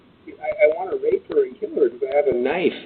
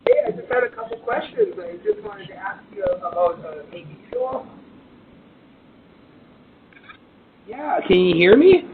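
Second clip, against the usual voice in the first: loud through doorbell; 6 dB louder than usual. Real, not acted. Man yelling through a doorbell.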